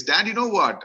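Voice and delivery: put-on high, eager little boy's call; a son bursting to tell his dad news; eager child. Son running in from school, high and eager.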